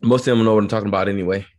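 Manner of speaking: quick, slurred-together Southern accent; native Southern accent. Shown as a demonstration. Guest carries on in native accent for host, fast Southern. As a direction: rattle it off in your home Southern accent. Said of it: "in my native accent".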